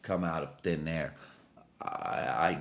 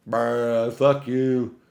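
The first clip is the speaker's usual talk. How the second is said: voicing the cat; 3 semitones higher, 8 dB louder, much slower than usual. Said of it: "But she's like".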